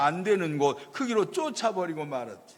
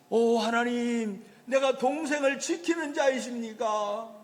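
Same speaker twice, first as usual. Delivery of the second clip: mock innocent question; 7 semitones higher than usual. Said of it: "그랬더니 뭐라 그래요?".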